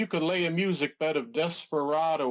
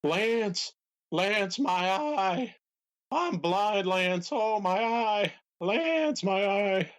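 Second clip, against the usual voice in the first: higher, pained yells for Lance; blinded wrestler crying out; 5 semitones higher, much slower than usual. Acted. Trying out a new impression for the host, pained higher yelling. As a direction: wail like a blinded wrestler calling his partner. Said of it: "last impression that I'm, uh, working on".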